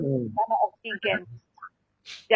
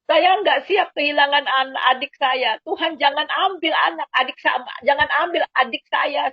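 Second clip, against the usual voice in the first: raised, tearful cry to Jesus, slowed at the start; crying out to God; 3 semitones higher than usual. Retold or imitated. Praying for her dying sister, crying out in a high, tearful voice. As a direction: plead with God through sobs, voice pitched up. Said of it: "saya nangis terseduh-seduh, saya teriak-teriak".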